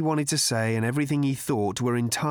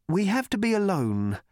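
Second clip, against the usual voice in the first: put-on higher, pleading young man; earnest worried cricketer; 10 semitones higher than usual. A narrator's reading. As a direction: explain your worry politely. Cricketer confiding to Trillian.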